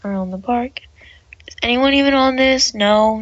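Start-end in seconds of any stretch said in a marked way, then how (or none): 1.5-3.2 loud, higher disbelief; half-shouted surprise; incredulous. Real, not acted. Outraged at empty ride.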